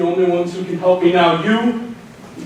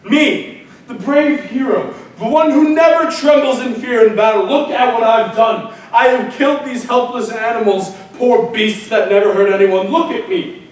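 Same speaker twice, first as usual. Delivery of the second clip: shamed rant; 4 semitones higher than usual. Acted. Ajax rants in shame.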